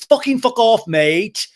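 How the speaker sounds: high, loud mock yell; James's angry dismissal. Recapper imitating James dismissing Schwartz, loudly furious. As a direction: explode in imitation of a man telling someone off.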